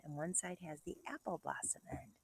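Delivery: hushed whisper while showing; soft whisper. Acted. Teacher whispering to kindergartners while showing an apple. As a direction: lean in and breathe it.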